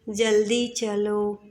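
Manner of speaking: slow, unhurried जल्दी चलो; relaxed. Shown as a demonstration. Teacher showing the wrong relaxed delivery. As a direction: drawl it calmly, no urgency. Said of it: "ऐसे आराम से नहीं बोलेंगे".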